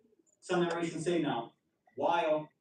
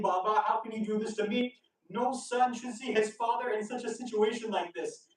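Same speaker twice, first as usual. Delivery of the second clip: higher-pitched mild cry of grief, no sobs; retold crying out; 5 semitones higher than usual. Son calling to his slain father's head, retold grief. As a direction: call out to a dead father, earnest retelling. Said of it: "begins crying out and calling out".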